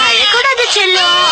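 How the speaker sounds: slow, stretched cooing on அழக்கூடாது; drawn-out sing-song அழக்கூடாது to the baby; baby talk. Acted. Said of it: "குழந்தைகிட்ட எப்படி பேசுறீங்களோ". (மெதுவாக நீட்டிக் கொஞ்சும் அழக்கூடாது)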